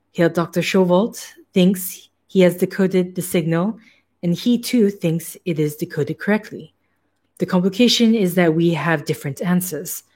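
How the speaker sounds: put-on light German accent for the hairless scientist; a hint of a German scientist's accent; German accent, lightly worn. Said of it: "I don't know why this accent".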